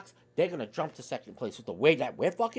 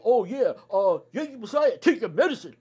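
mocking critics; 3 semitones higher, 4 dB louder than usual. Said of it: "you people wanna come out here and say".

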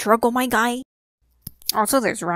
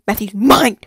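whispering; 10 dB louder than usual. Real, not acted. Possessive rant about character.

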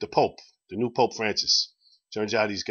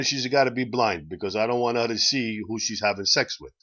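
attempted Italian accent for a joke Pope. The Pope sets terms to the doctor, in an Italian accent. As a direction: put on a light Italian accent. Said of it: "so I'll try to do the Italian accent".

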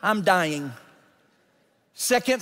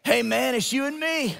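put-on young jumper's voice; 3 semitones higher than usual. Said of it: "This is what he said".

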